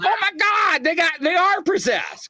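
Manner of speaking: mock-horrified, high-pitched gasp about possession; mock panic. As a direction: imitate people freaking out. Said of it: "And they're like".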